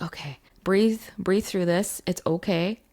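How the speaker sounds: whispered self-soothing, steady; calming herself. Retold or imitated. Alone in the flood, soothing herself in a hush. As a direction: talk yourself down gently. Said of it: "I had to center myself".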